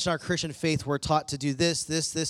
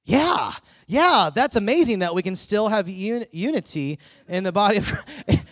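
mock enthusiastic agreement; 3 semitones higher, 5 dB louder than usual. Young man humoring a preacher with overdone cheer. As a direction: parrot it back with exaggerated cheer. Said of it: "And he was like".

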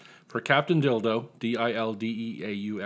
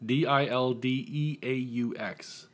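spelled out letter by letter; slower than usual. Shown as a demonstration. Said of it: "spells out the town name".

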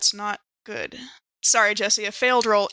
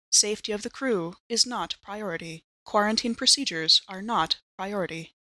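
a lightly voiced computer, level and quieter; ship computer Mother; 3 dB quieter than usual. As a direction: read it like a cold ship AI reporting orders. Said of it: "And Mother replies".

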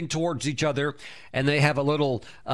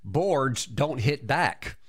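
slow, unbothered and cool; calm; much slower than usual. Retold or imitated. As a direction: say it slowly like nothing can shake you. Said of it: "Bruce Lee very calmly said".

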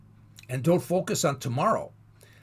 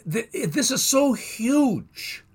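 laughing awe; 7 semitones higher, much slower than usual. Real, not acted. Awe at the Exodus.

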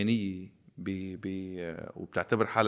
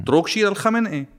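sarcastic; 10 semitones higher, 5 dB louder than usual. Real, not acted. Sarcastic jab at Khamenei.

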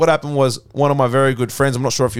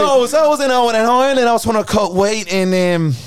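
much higher, hammed-up Irish brogue; cocky Irish fighter voice, overdone; Conor McGregor Irish accent; 6 semitones higher than usual. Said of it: "that's all that audio's got Connor on".

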